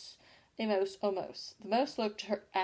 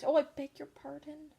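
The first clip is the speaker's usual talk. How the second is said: higher apologetic cry; hasty cry; 7 semitones higher than usual. A narrator's reading. Alice to the bristling mouse, a hasty cry. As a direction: rush the apology out. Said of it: "cried Alice again".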